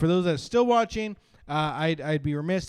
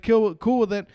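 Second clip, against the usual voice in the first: put-on higher and louder kid voice; little brother; 6 semitones higher, 6 dB louder than usual. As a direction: chirp it up like a kid. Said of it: "he's like".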